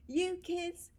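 high, loud Irish mum scolding; Irish accent. Retold or imitated. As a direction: scold the kids in a thick Irish lilt. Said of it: "in an Irish accent".

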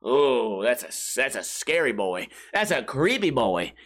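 mock scared viewer. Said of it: "whenever the bad guy comes on screen, you go".

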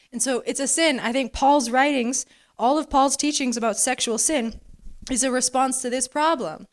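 talking around a lozenge; lozenge in mouth. Real, not acted. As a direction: lozenge tucked in cheek while preaching. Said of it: "I have a, co-, a lozenge in my mouth".

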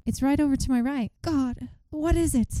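high-pitched reenactment, slowing on the question; acted alarm. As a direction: act out an alarmed witness under hypnosis. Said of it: "I'm, like, reenacting right now".

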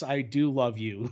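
drawn-out, very slow Yes, I do love you; slow mock vow. Parodying the lover again, drawn out slowly. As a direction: stretch every word of it.

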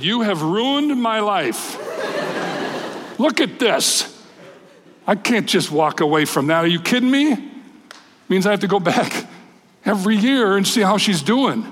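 high, laughing disbelief; half-laughing, voice way up, overwhelmed; overwhelmed exclaiming. Retold or imitated. Telling my pastor the girl won me over, laughing high. Retelling emotional moment to pastor.

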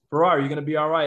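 tearful reassurance. Retold or imitated. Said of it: "they're all crying".

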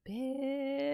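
high, scornful one-word jab; mock indignant insult. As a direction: spit it out in high disbelief. Muttered insult, retold thought.

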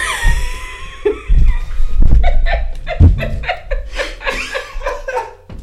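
loud high shrieking laugh; howling laughter. Real, not acted. Friend recalls barking at coworker, howling laughter. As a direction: crack up helplessly at yourself.

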